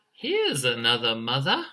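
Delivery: lightly voiced chick, swooping up at the end; chirping chick. Emu chick spots Fox as a mother, light chirp. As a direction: chirp it hopefully, with a rising lilt. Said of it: "and he chirped".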